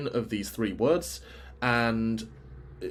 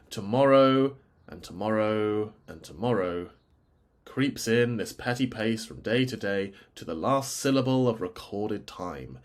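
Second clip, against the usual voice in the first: reciting; 2 semitones lower than usual. Shown as a demonstration. Reciting the linked lines of soliloquy.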